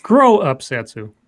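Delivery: mock scold. Scolding Satsu mock-sternly.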